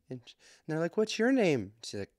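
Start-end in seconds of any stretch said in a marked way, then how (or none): 1.0-1.7 put-on very high child's question; imitated little girls. Little girls asking his daughter, imitated child voice. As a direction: pitch up like a curious little kid.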